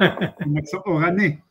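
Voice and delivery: slow and careful, spelling it out; deliberate clarifying repetition. Real, not acted. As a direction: repeat it slowly so they catch it.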